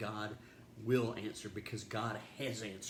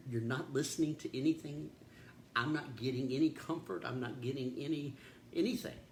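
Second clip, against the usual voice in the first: anguished plea to God; 4 semitones higher than usual. Retold or imitated. Pastor voices the grieving psalmist to the congregation, anguished higher plea. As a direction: plead with God as if unheard. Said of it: "who were screaming out".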